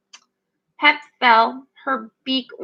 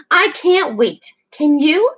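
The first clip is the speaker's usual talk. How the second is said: a light, high little squeak; 3 semitones higher, 4 dB louder than usual. Acted. Mary greeting Pip at the shore, light squeak. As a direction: chirp it eagerly. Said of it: "she squeaked".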